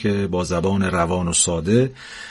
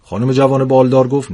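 lively storyteller reading a funny tale; story narration; 3 semitones higher than usual. A narrator's reading. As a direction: read it like a comic bedtime story. Narrator reads humorous story aloud. (روایت داستان طنز)

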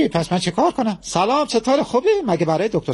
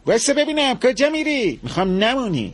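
higher, urgent plea after her; high pleading; 6 semitones higher than usual. Acted. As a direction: call her back in a raised voice. Man pleading with angry wife.

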